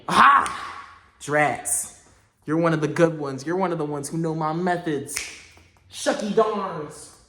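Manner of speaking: hammed-up caught villain, slow on shucky darns; cartoon villain grumbling defeat; mock foiled villain. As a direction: play a cartoon crook foiled. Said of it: "mock villain caught".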